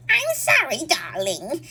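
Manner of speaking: put-on squeaky old man voice, British accent; mock a narrator's silly old man; bad old man voice. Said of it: "the way this woman does an old man voice".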